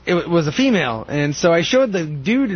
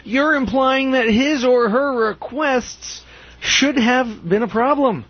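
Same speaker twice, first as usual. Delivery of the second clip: mock article reading; 6 semitones higher than usual.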